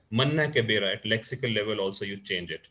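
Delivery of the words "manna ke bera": louder Haryanvi phrasing; deeper Haryanvi dialect. Shown as a demonstration. Teacher going further into the region, in Haryanvi dialect. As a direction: push it out in rural Haryanvi. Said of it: "if you go a little further".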